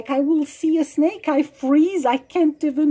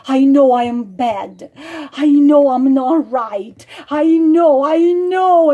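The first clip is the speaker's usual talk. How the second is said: mock pleading; 6 dB louder than usual. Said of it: "make the sad eyes and crocodile tears".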